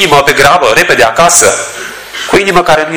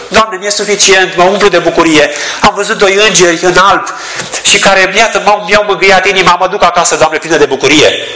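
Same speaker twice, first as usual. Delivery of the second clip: lightly voiced, higher joyful Maria; a hint of contented Maria, higher; imagined Maria; 6 semitones higher than usual. Maria imagined content, going home. (Maria mulțumită, cu voce mai sus)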